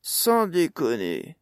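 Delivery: high, loud, drawn-out disbelief; astonished cry. A narrator's reading. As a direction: exclaim in amazement, stretching the words. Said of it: "s'écria le gnome en ouvrant des yeux ronds".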